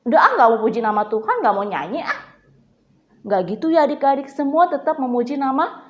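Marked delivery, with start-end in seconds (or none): 0.1-2.2 quick, grumpy brush-off; mock annoyed refusal. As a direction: imitate a child refusing, mildly sulky.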